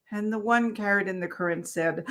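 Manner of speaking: soft, measured storytelling voice; story narration. Acted. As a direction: read it like a bedtime parable. Reads a parable aloud.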